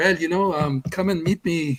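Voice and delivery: clumsy, bad, put-on French accent. Retelling a conversation with a man the speaker once met, in a bad french accent. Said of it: "I'm not doing the accent right".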